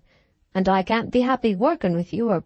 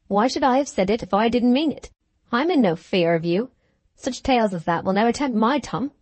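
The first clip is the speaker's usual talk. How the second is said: mildly indignant, a little raised; 3 semitones higher than usual. Acted. Caleb rebuffs Bulstrode's distrust, mildly indignant. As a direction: bristle at the accusation, understated. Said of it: "he said indignantly".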